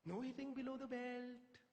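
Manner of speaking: imitated warning, slow and high-pitched; Jeffrey Boycott. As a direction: stretch it out like a pompous reprimand. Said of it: "he told me".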